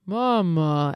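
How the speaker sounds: the call collapsing into distortion; distorted dying call. Retold or imitated. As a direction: let the call break up and die. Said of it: "dies and distorts as it's dying".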